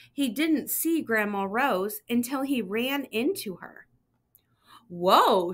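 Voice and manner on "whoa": a louder, startled "Whoa". Acted. Grandma Rose bumped into by Simon, startled whoa. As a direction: stop him short with surprise. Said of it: "she cried".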